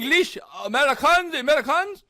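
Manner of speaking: very high, loud rising questions; hammed-up disbelief down the phone; astonished Frenchman. Frenchman learning Americans are calling, loud high-pitched astonishment.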